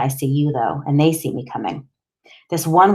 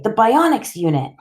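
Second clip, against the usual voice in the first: tag; 7 semitones higher than usual. A narrator's reading. Boy insists to the doctor.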